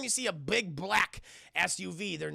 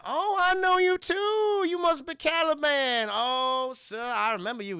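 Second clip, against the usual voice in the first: slimy villain; 7 semitones higher, 3 dB louder than usual. Retold or imitated. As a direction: greet them with oily delight. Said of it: "Juicy sounds so slimy".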